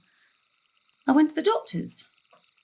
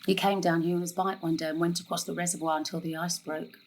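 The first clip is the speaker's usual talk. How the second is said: lower, softer, subdued memory; 6 semitones lower, 5 dB quieter than usual. Acted. Mother telling her daughter of the drowned boy, low and soft. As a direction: quietly recall a lost friend.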